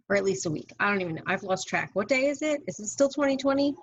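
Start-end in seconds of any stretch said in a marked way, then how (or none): 1.9-3.7 baffled. Real, not acted. Lost track of days, confused.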